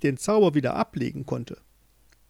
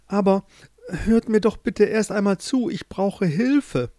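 urgent plea; 7 semitones higher, 4 dB louder than usual. Acted. Joringel begs to be heard.

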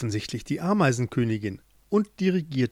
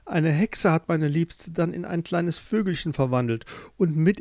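put-on earnest young Joringel; 3 semitones higher than usual. Joringel tells his tale.

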